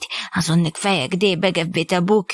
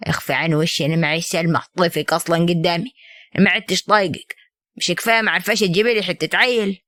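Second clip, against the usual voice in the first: lower, cold contempt at the wife; contemptuous husband; 4 semitones lower than usual. Acted. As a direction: push her away with disdain. Husband cruelly dismissing wife. (زوج يحتقر زوجته بصوت أخفض)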